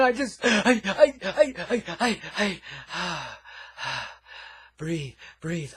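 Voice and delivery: overcome with emotion. Acted. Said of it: "I get so emotional when I talk like this".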